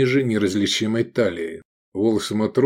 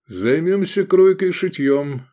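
higher, cheerful announcement; brisk and chipper; 8 semitones higher, 4 dB louder than usual. A narrator's reading. Man about to alter his new tunic, chipper. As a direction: perk up, ready to get to work. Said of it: "бодро сказал Лобанов".

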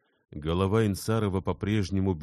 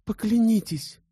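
much higher and louder, urgent begging; desperate pleading; 7 dB louder than usual. A narrator's reading. Elena demands Bersenev's oath, much higher and louder, frantic. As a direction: beg him to swear, almost frantic.

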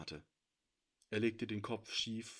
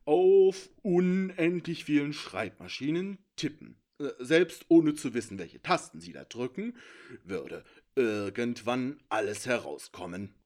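high, loud, gleeful creature voice; a smug little thief lecturing from the shadows; high sly intruder voice; 8 semitones higher, 10 dB louder than usual. A narrator's reading. Sneaky intruder boasting to the heroes, high and gleeful.

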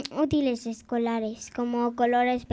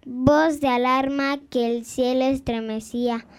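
grand poetry declamation. Acted. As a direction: declaim it proudly to the audience. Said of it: "nos va a compartir su poesía". (declamación solemne y sonora)

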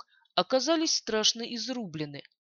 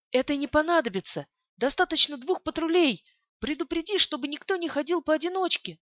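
commanding; 6 semitones higher, 4 dB louder than usual. A narrator's reading. Commander giving orders.

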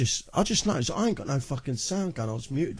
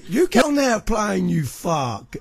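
louder, higher dare; taunting challenge; 4 semitones higher, 4 dB louder than usual. Real, not acted. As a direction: call him out to come over. Taunting his rival on the mic.

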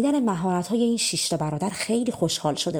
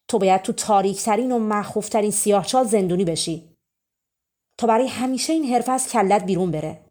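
louder furious king's rebuke; angry king; 5 dB louder than usual. Acted. King furiously condemns the thief Simon, loud rebuke. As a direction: condemn the thief with rising rage. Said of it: "خیلی عصبانی شد".

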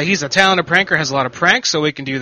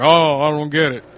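confused Milkman; 3 semitones higher, 5 dB louder than usual. Retold or imitated. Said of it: "imitating confused Milkman".

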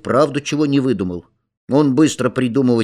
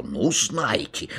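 angry teacher; 7 dB quieter, much slower than usual. A narrator's reading. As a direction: mutter it in offended anger. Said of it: "рассердился Пал Палыч".

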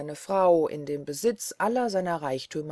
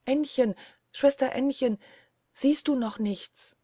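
higher anxious call up the tower; calling to sister; 7 semitones higher than usual. Acted. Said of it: "rufte ihr von Zeit zu Zeit zu". (Frau ruft ängstlich zur Schwester hinauf, höher)

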